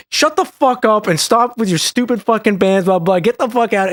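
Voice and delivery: hammed-up angry yell; imitating an angry rockstar. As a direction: tell her off like an annoyed guitarist. Kerry yells at the girl.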